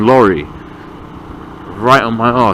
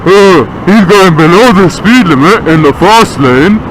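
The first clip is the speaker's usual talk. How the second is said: slow, sneering mimicry of the trucker's thinking; lightly voiced whiny driver; mocking whiny voice; 4 semitones higher, 3 dB louder, slower than usual. Mocking the trucker who blames him, slow and whiny. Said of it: "You saw the L plates like".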